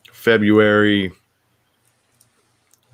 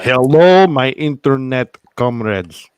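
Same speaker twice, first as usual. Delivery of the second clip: loud, higher, slow grand greeting; odd greeting voice; 5 semitones higher, 8 dB louder, slower than usual. Acted. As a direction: boom it out like a comrade. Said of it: "I don't know where that came from".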